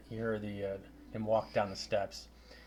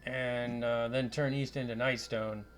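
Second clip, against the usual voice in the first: lightly voiced Scottish wizard; Scottish accent; 3 semitones higher, 5 dB louder than usual. Wizard gives adventurers directions, light Scottish accent. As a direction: give directions with a hint of Scottish. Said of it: "a Scottish accent".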